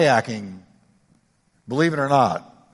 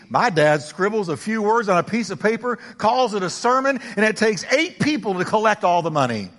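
a hint of a boastful kid, higher pitch; third boy bragging; 6 semitones higher than usual. Preacher voicing the winning schoolboy, higher and triumphant. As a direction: trump the other boys, pitched up. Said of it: "The third one said".

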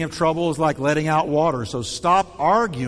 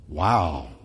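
much lower, dull and grudging; sarcastic compliment; 10 semitones lower, much slower than usual. Shown as a demonstration. Pastor demonstrates a sarcastic compliment after a sigh. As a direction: say it like you don't mean it.

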